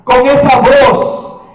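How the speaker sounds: emphatic voice of divine authority; ringing sermon build-up; commanding preaching. Acted. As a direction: proclaim each command with force.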